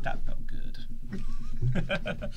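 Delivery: very high, slow falsetto; lady voice. Acted. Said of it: "I'm gonna have to do a lady voice".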